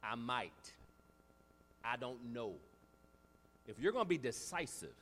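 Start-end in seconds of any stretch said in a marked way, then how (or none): 0.0-2.5 mock unsure maybe. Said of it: "Then that leads to maybes".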